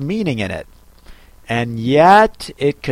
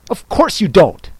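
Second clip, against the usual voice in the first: contemptuous Hatter; 5 semitones higher than usual. Acted. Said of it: "tossing his head contemptuously".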